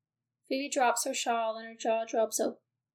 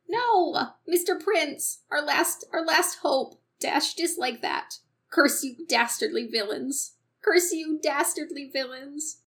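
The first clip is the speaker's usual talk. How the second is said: dramatic outcry; 2 semitones higher, 3 dB louder than usual. Acted. Hero cries out against villains.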